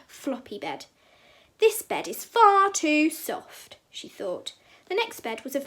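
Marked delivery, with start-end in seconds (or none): 1.6-3.8 slow, drawn-out complaint, louder and higher; complaining Goldilocks. A narrator's reading. Goldilocks to herself as she tries a bed, slowly complaining. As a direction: stretch it out in Goldilocks' dissatisfaction.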